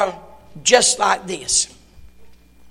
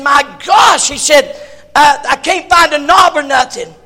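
mock frustrated foreigner; 4 semitones higher, 7 dB louder than usual. Foreigner angry at fountain.

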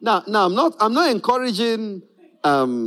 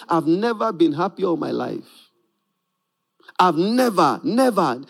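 remembered complaint; 3 semitones lower than usual. Retold or imitated. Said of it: "that person saying".

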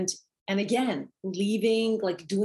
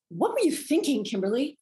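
critical inner voice; 6 semitones higher than usual. Retold or imitated. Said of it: "it's a judgment".

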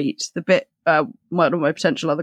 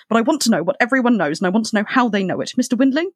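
insistent demand; 5 semitones higher, faster than usual. Acted. William demands answers.

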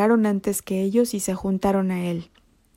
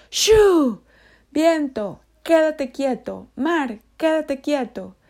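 high, loud, slow order to the storm; Jesus stills the wind and sea, loud and slow; commanding hush; 6 semitones higher, 5 dB louder, slower than usual. Acted. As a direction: hush the wind like a firm parent.

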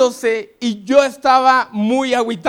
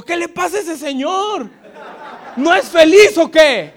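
higher, laughing mock bafflement at a thin man; puzzled mock question; 6 semitones higher, 4 dB louder than usual. Preacher mocking a thin married man, laughing. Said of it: "y digo".

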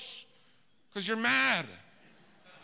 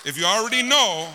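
preaching shout; 4 dB louder than usual. Acted. Preacher rebuking know-it-all.

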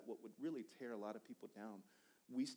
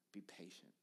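whispered; 5 semitones lower, 10 dB quieter than usual. Retold or imitated. God's advice, retold in a whisper.

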